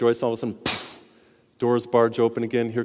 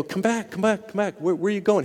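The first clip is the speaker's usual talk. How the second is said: calling after him; 7 semitones higher than usual. Retold or imitated. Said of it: "And they go".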